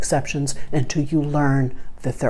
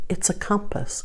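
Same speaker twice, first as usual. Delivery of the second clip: hushed, softer voice; whispered reveal; 6 semitones higher, 7 dB quieter than usual. Retold or imitated. Shop clerk turning the locket over, softly whispered. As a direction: breathe it out like a discovery.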